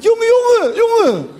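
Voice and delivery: imitating Moroccan Dutch street slang. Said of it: "klassieke Marokkaanse straattaalreactie".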